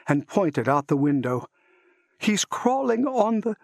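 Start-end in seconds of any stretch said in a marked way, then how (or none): 2.2-3.5 choked-off panic. A narrator's reading. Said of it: "ended with a choking rattle".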